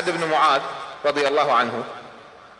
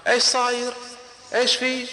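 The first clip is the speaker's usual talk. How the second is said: alarmed question; 7 semitones higher than usual. Acted. Crowd asking anxiously.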